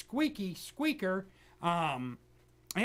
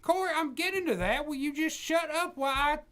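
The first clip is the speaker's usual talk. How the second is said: mock angry old preacher; 3 semitones higher than usual. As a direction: scold the interrupting host in a mock rage. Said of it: "Pat, are you there?".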